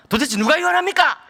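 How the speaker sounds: high-pitched, exasperated comeback; retold indignant challenge. Husband challenging his wife late at night, indignant. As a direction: act out an exasperated husband demanding an answer. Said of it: "막 제가 쏘아붙였죠".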